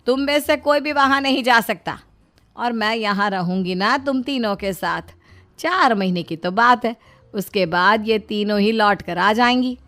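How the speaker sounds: firm scolding. Acted. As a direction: put your foot down loudly. Mother insists to lazy sons-in-law.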